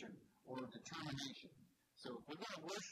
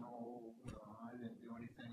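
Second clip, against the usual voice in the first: mush mouth; 4 semitones lower than usual. Retold or imitated. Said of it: "they're all mush mouth".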